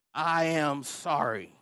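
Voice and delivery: slow, emphatic, spaced-out apology; deliberate apology. Retold or imitated. Husband repeating his apology to wife, deliberate. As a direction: lay down each word separately, with effort.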